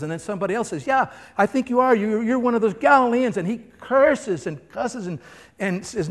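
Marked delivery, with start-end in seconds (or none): 0.9-3.4 high, loud, certain; accusing bystander. Acted. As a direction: call him out.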